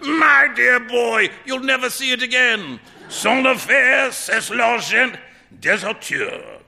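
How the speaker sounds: loud, high, slow hilarity; drawn-out, exultant teasing; roaring with amusement. A narrator's reading. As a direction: crow it through mock-roaring mirth. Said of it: "burst into a roar of laughter".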